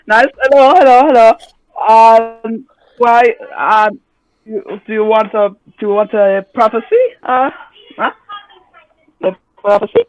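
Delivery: lightly voiced kindly old woman; a hint of a sweet granny offering prophecy; little old lady voice. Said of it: "Prophecy in a little old lady voice".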